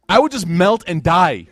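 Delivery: slow line broken by a laugh. Real, not acted. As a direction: laugh through the thought of melting. Preacher laughing at own image.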